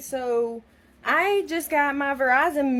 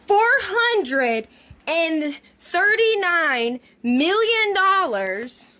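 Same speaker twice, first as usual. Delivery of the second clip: disbelief; 5 semitones higher, 3 dB louder, slower than usual. Real, not acted. Reading shocking bill amount.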